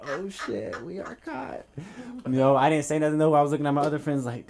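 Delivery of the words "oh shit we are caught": mock panic. Quoting own panicked thought.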